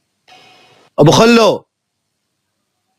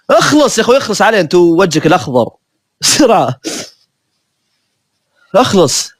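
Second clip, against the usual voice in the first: impatient urging; 2 semitones higher than usual. Real, not acted. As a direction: push him to finish now. Hurrying a slow teammate.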